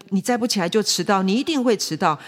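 mildly acted stubborn father; insistent. Father repeating himself to his child, mildly insistent. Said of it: "坚持自己的想法".

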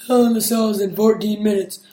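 hushed, unvoiced announcement; whispering. Shown as a demonstration. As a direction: breathe it out as a whisper. I repeat.

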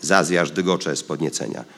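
usual speaking voice

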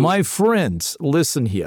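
bad French accent that sounds Russian; hammed-up, Russian-sounding French accent; botched French accent. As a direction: plead your case in mock French. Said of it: "it was supposed to be French".

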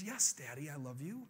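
soft, low, uncertain reply; confused little girl. Acted. Five-year-old answers her dad, confused. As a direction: answer hesitantly, unsmiling, rising at the end. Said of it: "she's confused".

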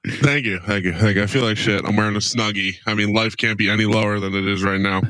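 deep, low and flat. Real, not acted. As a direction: voice sitting low. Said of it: "doing that weird low voice thing".

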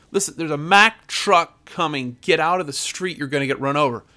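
urgent street warning, partly shouted; mock scream. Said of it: "I scream at you".

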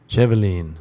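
"Chevelin" with a long ee ending; copied pronunciation. Shown as a demonstration. Podcaster repeating the played pronunciation, "Chevelin" ending in "leen". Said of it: "Let's hear how fucking Chevelin's pronounced".

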